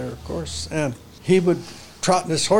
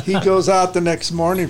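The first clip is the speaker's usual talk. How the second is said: laughing; 3 semitones higher, 3 dB louder than usual. Real, not acted. Laughing while telling story.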